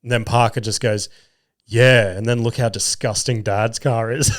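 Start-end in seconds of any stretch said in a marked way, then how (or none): 1.7-4.3 kid's mocking shout. Son at the window mocking dad's car, shouting. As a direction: shout it out like a cheeky kid teasing his dad.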